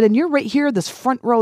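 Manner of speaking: high, eager and upbeat; cheerful pointing out. Retold or imitated. Shopper eagerly pointing out the windows to the cashier, high and bright. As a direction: sell her on the windows. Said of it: "I said".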